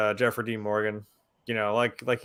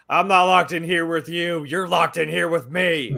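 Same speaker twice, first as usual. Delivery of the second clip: raised, emphatic imitation of a film threat, slowing at the end; quoted movie threat; 5 semitones higher, 4 dB louder than usual. Fan quoting the best line to the panel, emphatic threat. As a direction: deliver the famous line with rising force, then draw it out. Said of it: "best damn line".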